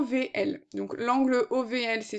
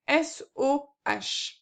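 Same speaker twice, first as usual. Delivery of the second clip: slowly spelled out; much slower than usual. Shown as a demonstration. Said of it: "c'est opposé sur hypoténuse".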